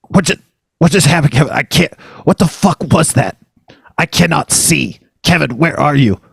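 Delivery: high-pitched, disoriented mock panic; broken fragments, pausing as if stunned by a blast; dazed panic. Host calls to Kevin after the bumper, in mock panic.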